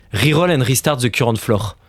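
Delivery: mock French-accented English read; jokey French accent on English words. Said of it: "vous avez apprécié mon accent".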